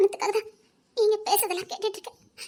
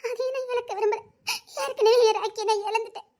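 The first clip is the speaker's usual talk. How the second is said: tearful pleading; 2 semitones higher than usual. Acted. Mother begging for her child.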